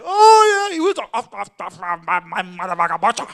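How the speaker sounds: Benicio in character. Retold or imitated. Benicio answering the line in full character, loud. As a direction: burst out in character, stuttering the curse. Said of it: "he just does it in his character".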